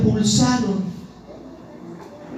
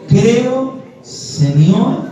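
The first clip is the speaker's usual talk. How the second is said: high "creo", then "Señor" lifting at the end; leading a recitation; 5 semitones higher, much slower than usual. Shown as a demonstration. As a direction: lead the congregation word by word. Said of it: "a ver, dígalo conmigo".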